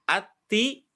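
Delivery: the wrong, thin way of ati. Shown as a demonstration. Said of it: "Jadi bukan ati".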